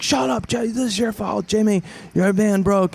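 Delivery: high-pitched squabbling captives; hammed-up blame throwing; mock bickering. Acted quarrel among the captives.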